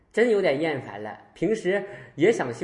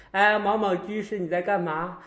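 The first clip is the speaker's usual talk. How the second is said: raised, hailing voice; friendly call-out; 4 semitones higher than usual. Retold or imitated. Master visits an old lay devotee, hailing. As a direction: call out to get someone's attention.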